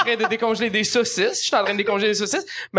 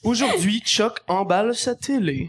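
narrator voice. Pretend. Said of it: "faire la narration de ma journée".

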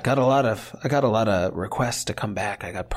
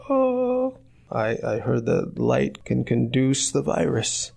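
innocent excuse; 4 semitones higher, slower than usual. Retold or imitated. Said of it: "And I'll be like".

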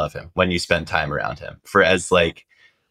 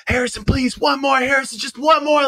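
much higher, pleading fans getting louder; begging fans; 3 dB louder than usual. Retold or imitated. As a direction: beg for one more like a frantic fan. Fans screaming for autographs.

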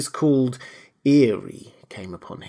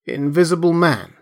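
incredulous; 5 semitones higher, 3 dB louder than usual. A narrator's reading. Kemp echoes the incredible claim.

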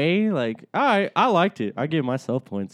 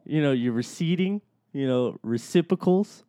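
beat poetry. Pretend. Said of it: "I feel like we're getting into a beat poem".

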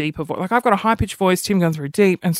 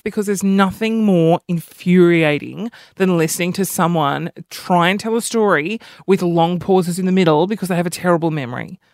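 normal talking voice

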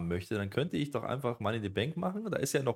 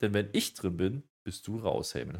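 slow, louder acted answer; mock Jey Uso reply; 3 semitones higher, 5 dB louder, slower than usual. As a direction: draw the words out, leaning on each one. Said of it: "der antwortet hier auch und sagt".

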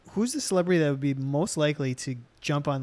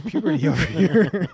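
laughing; 7 dB louder than usual. Real, not acted. Laughing tease about cracked voice.

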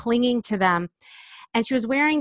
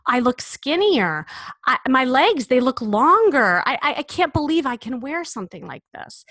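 amazed client; 5 semitones higher, 3 dB louder than usual. Retold or imitated. Client seeing herself in the mirror, in amazed disbelief. Couldn't believe what she saw.

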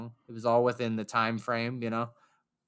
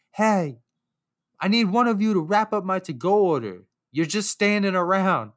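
higher, louder bossy call over the crowd; mock yell; 6 semitones higher, 3 dB louder than usual. Bartender yells at staff to wrap his order, mock yell. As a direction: imitate her yelling at the staff. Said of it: "lady yells over me".

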